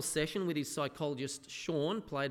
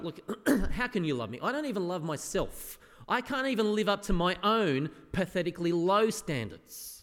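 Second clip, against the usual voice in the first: louder, exasperated plea; exasperated protest; 3 semitones higher, 5 dB louder than usual. Retold or imitated. Believer protesting to Jesus that he can't be loved, louder and exasperated. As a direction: push back in frustration.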